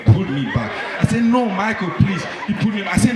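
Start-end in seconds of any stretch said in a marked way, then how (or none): 1.2-2.2 put-on higher pleading girly voice; coy protest, raised pitch; talking like a woman. Pulled back by Michael, pleading like a woman. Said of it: "I started talking like a woman".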